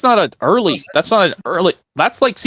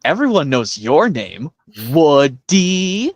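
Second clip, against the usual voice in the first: put-on old prospector voice; slower than usual. Acted Toy Story scene.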